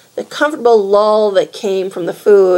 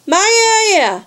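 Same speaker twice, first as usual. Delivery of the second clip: yelling; 11 semitones higher than usual. A narrator's reading.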